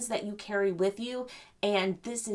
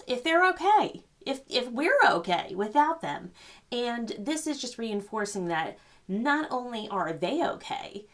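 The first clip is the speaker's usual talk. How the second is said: teary; 3 semitones higher than usual. Real, not acted. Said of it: "I'm getting teared up".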